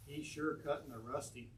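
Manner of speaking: slow, lightly voiced Appalachian accent; drawn-out Appalachian turn of phrase, lightly done. Poet quoting the neighbor across the street, mild Appalachian accent. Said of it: "she said it in that sort of Appalachian accent".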